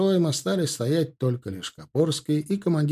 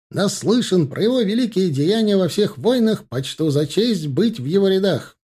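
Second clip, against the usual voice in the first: eager shout; 8 semitones higher, 6 dB louder than usual. A narrator's reading. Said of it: "выкрикнул Димка".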